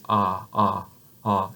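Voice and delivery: "Ah" with the tongue flat and the mouth wide open. Shown as a demonstration. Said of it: "I'm touching down here".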